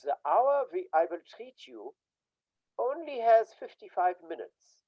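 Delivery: put-on light Austrian German accent; lightly put-on Austrian German accent, "has" leaned on; Freud's Austrian German accent. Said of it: "he spoke with a German, an Austrian German accent".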